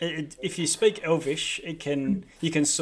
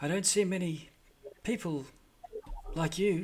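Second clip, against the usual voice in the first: faint, hushed, very soft half-whisper; 4 semitones higher, 6 dB quieter than usual. Narrating a floating light speaking to a player, very soft half-whisper. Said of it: "you hear this very soft whispering voice".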